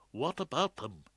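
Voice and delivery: panicked whisper. A narrator's reading. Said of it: "Ballard whispered back in a sudden panic".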